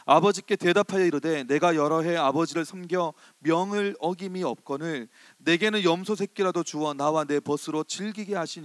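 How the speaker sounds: booming Bible reading from the pulpit; loud scripture reading. Acted. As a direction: read the verse out loud and firm, like a proclamation.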